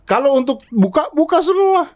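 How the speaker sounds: high-pitched, exclaimed challenge; emphatic demand. Real, not acted. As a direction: voice leaping very high. Heated demand for full openness.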